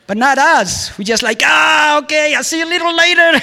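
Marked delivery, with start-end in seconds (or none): 1.4-3.3 a quick higher ah, okay, then hurry off; rushed mock goodbye. Excusing himself from a date, fast and a little higher. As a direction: brush it off fast like you need the bathroom.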